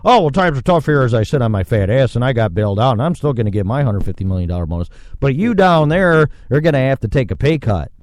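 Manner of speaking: smug fast boss voice, rattled off quickly; mocking fat-cat boss. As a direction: sneer as a rich boss excusing pay cuts. Mocking boss cutting pay.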